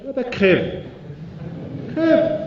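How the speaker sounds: high, loud barked dismissal; scornful shout. Acted. The rooster tells the mouse to die, a loud scornful shout. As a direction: spit it out with contempt.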